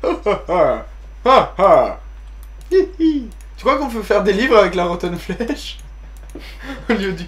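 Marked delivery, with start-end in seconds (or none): 0.0-3.3 fake mocking laugh.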